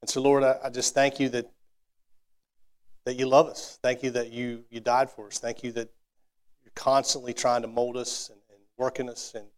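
heartfelt closing prayer, unhurried. Real, not acted. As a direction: pray sincerely over the congregation.

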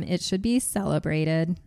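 flat monotone robotic reading. Real, not acted. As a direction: read it like a machine, no feeling. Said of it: "You read that like a robot".

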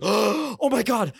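acted-out flustered babble; mild panicked apology. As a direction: imitate a kid apologizing in a panic. Acts out David's panicked apology.

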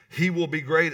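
2 proclaim it big and bold; 3 announce the verse with force; 4 preacher booming out scripture; 1 emphatic scripture reading. Real, not acted. Pastor reading scripture aloud.

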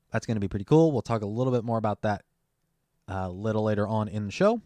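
talking around a lozenge; sucking a throat lozenge. Real, not acted. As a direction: lozenge in mouth while talking. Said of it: "as I shift the throat lozenge diff- around my mouth".

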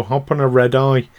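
a light, playful put-on accent, slowing on "from New York". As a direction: tease the listeners in a half-hearted accent. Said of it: "I don't know why I'm doing an accent".

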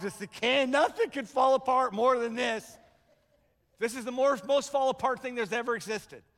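loud, high mock panic; over-the-top catastrophizing. Preacher hamming up a worst case scenario, loud mock panic.

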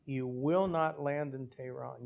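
slow, deliberate stress on "will not"; imitating an instructor's measured emphasis on "not"; emphatic instruction. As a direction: retell a rule, spacing out "will not land". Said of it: "And they emphasize".

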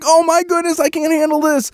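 very high overexcited squeal of words; super excited. Retold or imitated. Co-host mimicking her fellow fan's thrill, super excited. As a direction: imitate a fan overwhelmed, pitch way up. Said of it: "super excited".

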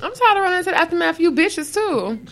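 high, fast echoing complaint; exasperated echo. Acted. Host echoes co-host's rant back at the other sex, exasperated. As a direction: fire it back high and quick.

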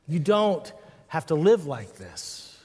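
slow, firm quoted insistence; emphatic friend who won't let it go; insistent repeating. Retold or imitated. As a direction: press each phrase home, pausing after DON'T. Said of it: "He just kept repeating".

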